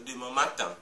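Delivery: Demain matin with TIN lengthened; stress on final syllable. Shown as a demonstration. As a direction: lean on the end of "matin". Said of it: "tin est la syllabe la plus forte".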